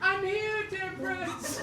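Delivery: high sweet princess greeting; bright squeaky sing-song welcome. Acted. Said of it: "I gotta put on my princess voice".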